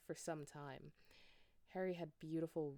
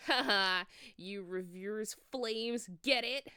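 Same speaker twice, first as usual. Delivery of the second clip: laughing; 4 semitones higher, 8 dB louder, slower than usual. Acted. Dumbledore laughing at his pun.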